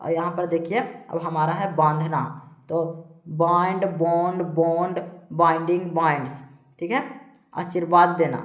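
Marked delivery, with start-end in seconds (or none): 3.3-6.4 evenly spaced word-by-word list; steady classroom drill; verb drill recitation. Shown as a demonstration. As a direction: recite each form separately for pupils to memorise. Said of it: "इस प्रकार से सारा को पढ़ते जाना है".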